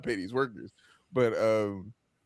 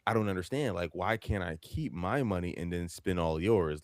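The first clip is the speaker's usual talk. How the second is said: straight-faced mock woman; 5 semitones lower, 6 dB quieter than usual. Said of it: "women will say this with a straight face".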